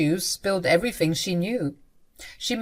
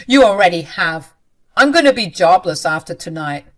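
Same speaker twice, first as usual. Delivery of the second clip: despairing; 10 dB louder than usual. Acted. Husband despairs at wife.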